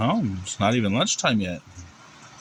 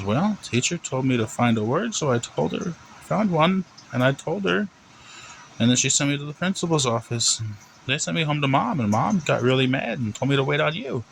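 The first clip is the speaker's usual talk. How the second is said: put-on high, sing-song kid's explanation; innocent little boy; 6 semitones higher than usual. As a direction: recount it as an innocent boy to the principal. Plays Timmy explaining to dad.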